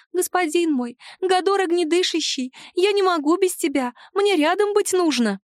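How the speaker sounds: high pleading little voice. Acted. House spirit begs her dragon master to let her stay, high pleading voice. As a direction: beg him in a high, needy voice.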